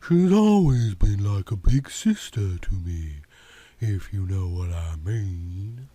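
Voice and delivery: lazy Southern woman explaining. Acted. Yvonne's voice continues.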